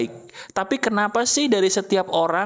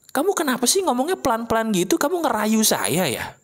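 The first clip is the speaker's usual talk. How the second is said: high-pitched scolding, mildly indignant; mock angry boss; 5 semitones higher than usual. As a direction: play an offended boss telling someone off, pitched up. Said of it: "marah di depan muka dia".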